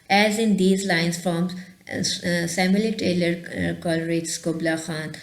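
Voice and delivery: slow, careful read-aloud of the passage; textbook reading. Acted. Teacher reads the textbook line to students, slow and measured. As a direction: read it out deliberately, word by word.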